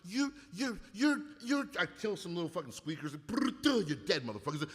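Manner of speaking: high, mocking trash talk; trash-talking gamer. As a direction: taunt like an online gamer. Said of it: "shit-talking kids".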